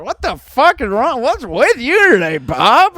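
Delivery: high, fed-up outburst; exasperated dad. Retold or imitated. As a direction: imitate a dad losing patience. Acting out fed-up, exploding dad.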